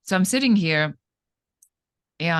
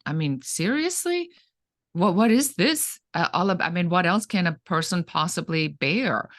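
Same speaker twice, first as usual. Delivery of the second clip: higher, pleading half-shout, recalled; retold yell at God; 4 semitones higher than usual. At her father's funeral, crying out to God, mild retold yell. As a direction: relive crying out to God in despair, lightly. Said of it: "I yelled at him and I said".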